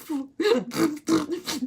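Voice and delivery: high, sputtering mock sobs; hammed-up ugly-cry noises; imitated ugly crying. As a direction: blubber in exaggerated pretend crying. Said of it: "Like, ugly crying".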